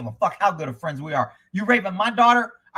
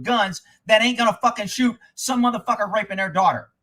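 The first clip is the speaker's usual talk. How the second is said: worked up; 4 semitones higher, 4 dB louder than usual. Real, not acted. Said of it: "I'm getting a little excited".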